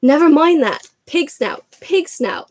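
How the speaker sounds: loud, high, breathless password; panted. Acted. Harry panting the password to the portrait, breathless. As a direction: gasp out the password. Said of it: "panted Harry".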